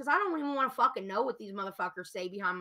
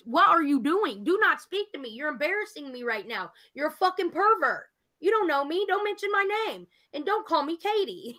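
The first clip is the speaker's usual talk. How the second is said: telling off pervert; 4 semitones higher than usual. Pretend. Scolding the chat pervert who messaged her, mock angry.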